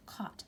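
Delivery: "caught" said slowly and very softly; slow English demo. Shown as a demonstration. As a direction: draw out "caught" gently as a model word. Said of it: "Si ya pasó, decimos".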